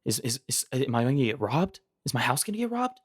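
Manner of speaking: lightly acted anxious worry, stammering; mock fearful. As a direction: pretend panicky thought. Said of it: "you're feeling very fearful".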